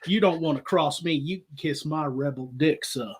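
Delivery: lightly voiced Savannah accent; genteel Southern threat, played understated; Southern gentleman gunslinger. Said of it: "the gunslinger of the ship".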